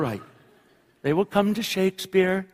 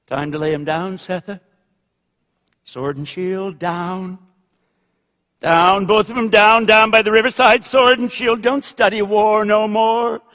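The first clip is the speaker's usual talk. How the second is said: literary reading; 4 semitones higher than usual. A narrator's reading. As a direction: begin gently, then build like a litany. Reads novel passage aloud.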